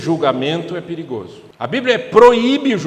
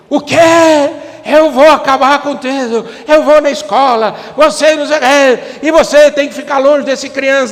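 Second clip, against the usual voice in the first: much higher, much louder outraged yelling; furious parent; 8 semitones higher, 11 dB louder than usual. Acted. Mother blowing up at her son over school news, yelling. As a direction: explode at the child in panic.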